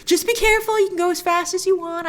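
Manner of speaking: high-pitched, indulgent mom voice, imitated; acting out a delighted mother's caution; happy mother. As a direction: gush like a proud mom, pitched well up. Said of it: "I like how happy Wanda is for her children".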